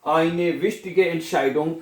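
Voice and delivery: very slow sentence end; slow dictation. Shown as a demonstration. Teacher slowly finishing the German sentence. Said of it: "क्या जुमला बनेगा जी?".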